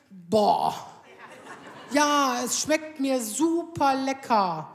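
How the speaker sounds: slow, reluctant praise through a laugh; grudging husband. Retold or imitated. Husband forced to praise wife's cooking, grudging and slow. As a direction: drag out the compliment unwillingly. Ralf grudgingly answers about food.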